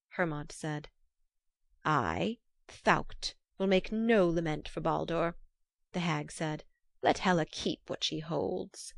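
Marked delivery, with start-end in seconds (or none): 1.8-5.4 hag voice. Acted. Hag refuses to mourn. 7.0-8.9 put-on the old witch, grim and matter-of-fact; hag voice. Hag says it first.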